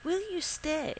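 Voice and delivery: high, gently pleading question; a touch of soft pleading. A narrator's reading. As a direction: lift the pitch and ask tenderly. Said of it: "she asked softly".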